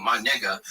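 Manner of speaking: nigga said slowly, ending in "uh". Shown as a demonstration. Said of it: "It was with the A".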